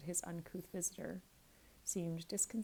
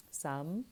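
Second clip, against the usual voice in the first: "Some" leaned on hard; emphatic; 3 dB louder than usual. Acted. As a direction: give "Some" heavy weight.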